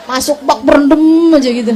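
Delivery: fast, loud, laughing "berendam aja gitu"; laughing joke. Real, not acted. Preacher laughing as she tells the mothers to soak in the tub. Jokes about soaking in tub.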